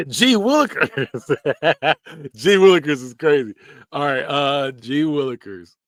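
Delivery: mock gee-whiz voice. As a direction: play an old-fashioned wholesome kid. Mocking old-fashioned phrase.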